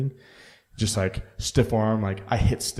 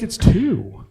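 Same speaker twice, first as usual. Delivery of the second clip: high, slow scolding imitation; a high, slowed mock scold; mock girlfriend; 11 semitones higher, 5 dB louder than usual. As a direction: mimic her pointing out the hour. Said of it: "She's like".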